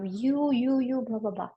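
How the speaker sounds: a light jab of blame, then dismissive blah; accusing tone. Shown as a demonstration. Coach mocking a blaming partner's tone, lightly accusing. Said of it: "your tone of voice shouldn't be like".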